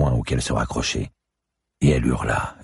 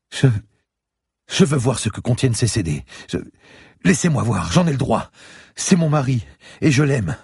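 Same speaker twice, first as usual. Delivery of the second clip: put-on very high, insistent old lady; pleading old woman; 12 semitones higher, 4 dB louder than usual. A narrator's reading. Old lady demanding to see her husband's CDs, pleading.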